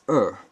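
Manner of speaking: er in the falling fourth tone, said outright and firm. Shown as a demonstration. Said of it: "it is spoken outright".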